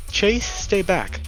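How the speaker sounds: high, loud, drawn-out yell; warning shout. Acted. Warning Chase away from slashing lynx, urgent shout. Warning friend during the struggle.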